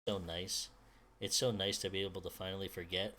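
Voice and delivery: muffled, underwater, dreamy; submerged voice. Acted. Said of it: "it sounds like she's submerged".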